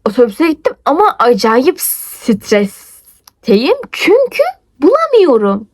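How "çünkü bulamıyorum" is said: panicky. Retold or imitated. Frantic search for exam document.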